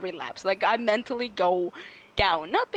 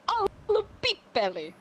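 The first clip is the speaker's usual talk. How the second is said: higher mock voice; imitating boyfriend; 10 semitones higher than usual. Imitating boyfriend teasing in Finnish, higher playful. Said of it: "somebody say".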